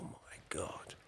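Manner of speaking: a hushed, awed whisper to yourself; stunned whisper. Retold or imitated. Son recalling his reaction to his dad, hushed whisper. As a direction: breathe it out, barely a whisper.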